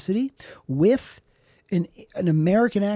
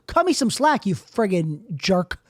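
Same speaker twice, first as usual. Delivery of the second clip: mock indignation; 2 semitones higher than usual. Comic telling off the guy who called him names, indignant. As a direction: plead and scold in one slow-ending burst. Scolds an online critic.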